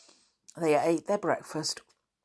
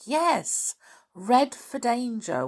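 put-on much higher, louder boyish echo; eager echo; 8 semitones higher, 5 dB louder, slower than usual. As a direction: echo it back, catching on. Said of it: "said Dick".

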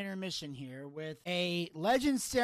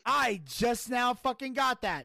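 surprised exclamation; 5 semitones higher, slower than usual. Real, not acted. Realizing the pun, exclaiming.

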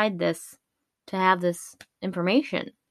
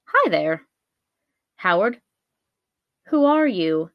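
put-on creature voice, pushed louder; lake monster; 4 dB louder than usual. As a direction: voice a lake monster introducing itself. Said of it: "the Black Lake monster said".

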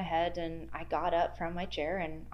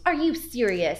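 louder, higher mock disbelief; incredulous; 6 semitones higher, 7 dB louder than usual. Boss hearing about the crying, acted incredulous. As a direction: react with amused, raised-voice disbelief.

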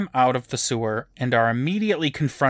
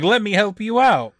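mock helpful; 8 semitones higher, 5 dB louder than usual. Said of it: "in a good way".

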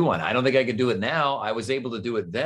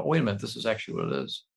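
realizing viewer; 3 dB quieter, much faster than usual. Retold or imitated. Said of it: "you go".

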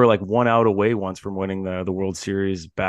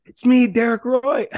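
much higher, louder, slow; mock fan shout; 6 dB louder, slower than usual. Greeting an old hockey hero, high loud slow fan shout. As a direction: announce yourself like a starstruck fan. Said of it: "I'm like".

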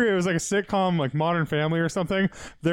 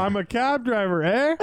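high mock Canadian accent; 5 semitones higher than usual. Cab driver introducing himself, mock Canadian accent. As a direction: play a Canadian, lifting the "eh".

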